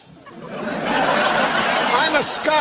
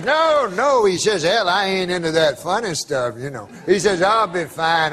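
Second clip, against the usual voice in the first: put-on old prospector; 4 semitones lower than usual. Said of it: "I can tell by the accent".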